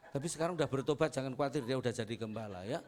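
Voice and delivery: fast, chuckling aside; laughing tease. Real, not acted. Teasing remark, laughter. (bercanda sambil tertawa)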